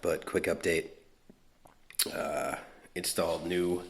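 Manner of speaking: breathless, catching breath between words. Real, not acted. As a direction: talk while still winded. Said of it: "I'm a little out of breath".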